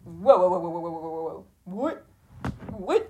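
mock stunned wow, repeated over and over; acted amazement. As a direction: imitate being blown away, ending on sharp rising questions.

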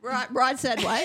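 laughing through the words; amused disbelief, chuckling. Real, not acted.

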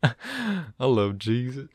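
put-on voice. Shown as a demonstration. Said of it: "how do I do a proper voice?".

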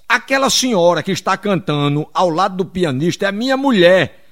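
anfitrião projetando a voz, palavra por palavra; repetindo bem alto. Acted. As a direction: fale forte para quem não ouve. Repete mais alto para ser ouvido. (anfitrião repetindo em voz alta)

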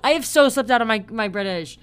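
loud, high burst through laughter; embarrassed laughing. Real, not acted. Podcaster losing their British accent, loud embarrassed laughing. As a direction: laugh helplessly at your own failed attempt. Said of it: "I'm embarrassed now".

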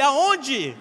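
repeated yell. Retold or imitated. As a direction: yell it again, a bit spent. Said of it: "Eu gritava com ele".

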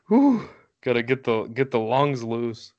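winded after a fast spiel; out of breath. Real, not acted. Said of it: "huffing and puffing".

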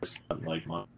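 cutting in and out; choppy robotic call audio; low sample rate. Real, not acted. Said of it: "You're cutting in and out".

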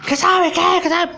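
high, challenging snap; rising up to start trouble; picking a fight. Acted. Nacho provoked by his friend, high and challenging.

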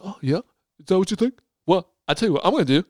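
mock London tough guy; rough attempt at a London accent. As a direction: Jason Statham comeback in bad London accent. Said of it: "This is my London accent".

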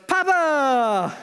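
put-on high, loud, laughing shout of a small child; toddler's delighted cry. Little son spotting his dad at the playground, delighted high shout. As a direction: squeal it like a thrilled toddler. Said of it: "and he goes".

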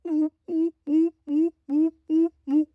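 high, steady pigeon cooing; pigeon imitation. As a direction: coo in short, even, high hoots. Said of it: "The pigeon is just going".

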